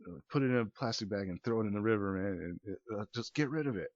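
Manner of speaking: lightly voiced high guy rambling to a phone camera; a hint of a wasted guy giving advice. Drugged man filming himself in a bathroom, half-voiced ramble. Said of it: "talking to his future self".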